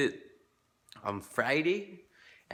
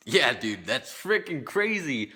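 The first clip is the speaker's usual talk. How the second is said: retold amazement; 3 dB louder, slower than usual. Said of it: "And then I tell him".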